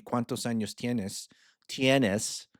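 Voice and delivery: Spanish in an American gringo accent; Spanish with English-speaker vowels, gringo accent. Real, not acted. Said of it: "That's my gringo accent".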